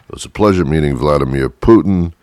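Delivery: a half-hearted Trump imitation; mild mock Trump read; Trump impression. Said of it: "I can't do a good, uh, impression of him".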